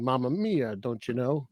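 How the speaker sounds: lightly mocked stage Italian accent; terrible Italian accent. Co-host mimicking the English actor playing Gino, terrible Italian accent. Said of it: "that's a terrible accent".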